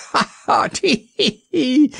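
high, giggling tee-hee of relief; chuckling. Acted. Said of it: "Atto chuckled from sheer relief".

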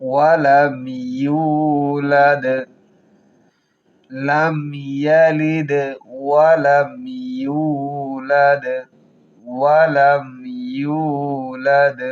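ইয়ালিদ and ইউলাদ ending in a bounced d; qalqala on dal. Shown as a demonstration. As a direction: stop each final d with a little echo. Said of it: "কলকলা হবে".

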